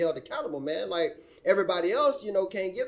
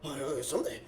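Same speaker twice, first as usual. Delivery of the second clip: mock laughing; 4 semitones lower than usual. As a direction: laugh through a mocking question. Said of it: "And they just laugh".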